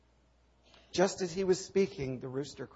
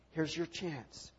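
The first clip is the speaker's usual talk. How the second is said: slow, softer urging; coaxing prompt; 6 dB quieter, slower than usual. Acted. Preacher coaxing Peter at the fire, slow soft urging. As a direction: nudge him gently toward the words. Peter tempted to confess Jesus.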